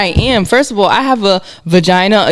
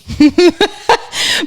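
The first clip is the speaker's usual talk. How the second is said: high laugh; 13 semitones higher than usual. Real, not acted. Laughs at friend's remark.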